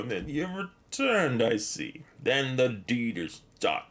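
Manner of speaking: put-on slow, drawn-out old wizard voice; Radagast. Streamer echoing the wizard's line to chat, slow and solemn. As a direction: intone it like the wizard in the tower. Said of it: "That's exactly the same as Radagast the Brown says".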